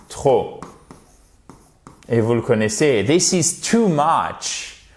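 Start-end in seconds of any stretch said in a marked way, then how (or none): 3.0-4.8 very slow, careful "this is too much"; slow example. Shown as a demonstration. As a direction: draw the example out for learners. (exemple très lent)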